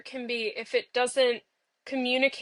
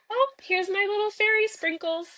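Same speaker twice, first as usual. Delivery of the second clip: delighted; 9 semitones higher than usual. Retold or imitated. Fool voicing delight at audience.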